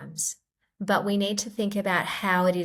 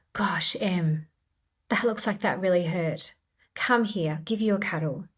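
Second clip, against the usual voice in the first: compassionate parent; 2 semitones higher than usual. Retold or imitated. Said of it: "is a compassionate response".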